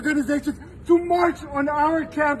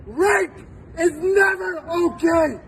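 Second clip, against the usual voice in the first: slow, crying through the words; slow tear-choked insistence; tearful; slower than usual. Real, not acted. Emotional plea, cry heard.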